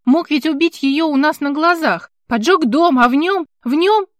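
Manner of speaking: rising panic until tears choke it; distraught, near tears. Acted. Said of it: "Она зарыдала".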